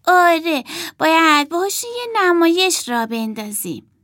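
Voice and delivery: high, loud eager suggestion; eager girl. Acted. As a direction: pitch the idea with zest. Emma's eager idea.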